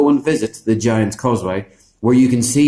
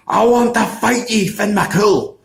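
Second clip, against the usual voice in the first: higher, bellowing giant calling out a challenge; giant's challenge; 9 semitones higher, slower than usual. Acted. Giant Ben and Donner calls Finn out at the door, bellowing challenge.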